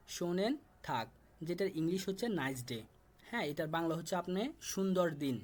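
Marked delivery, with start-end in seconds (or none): 0.1-1.1 শোনেন থাক said slowly and carefully, syllable by syllable; teacher slowly sounding out শোনেন থাক; slow model pronunciation. Shown as a demonstration. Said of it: "শুধুমাত্র আমি উচ্চারণ করে দিচ্ছি".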